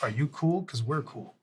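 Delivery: soft, easy reassurance; direct, unthreatening. Acted. Intimidating man lets the onlookers know it is no threat, direct. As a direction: keep it quiet and matter-of-fact. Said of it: "I am being direct. That's not a threat".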